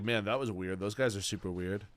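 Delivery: puzzled human. Acted. Early human watching the zebra flee, quietly puzzled. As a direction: muse it quietly to yourself, a little weirded out. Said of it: "we would be like".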